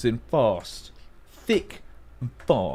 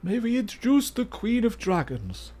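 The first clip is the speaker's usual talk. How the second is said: lofty herald announcing royalty, pitched high; grand announcement; 10 semitones higher than usual. Pretend. Gamer announcing a guess to chat like a royal herald, pitched up and grand. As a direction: present her like a court herald would.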